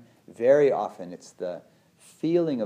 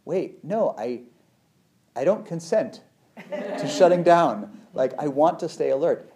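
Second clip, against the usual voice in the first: insistent protest; 6 semitones higher, 7 dB louder than usual. Pretend. In a hard conversation, loudly refusing to shut down. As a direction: refuse to let the shutdown happen.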